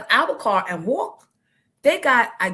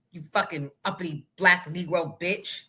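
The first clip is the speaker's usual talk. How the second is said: mock racist cop; 4 semitones lower than usual. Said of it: "That's what I heard".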